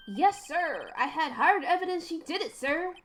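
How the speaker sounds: a hint of a bumbling detective. Voices Detective Gumshoe.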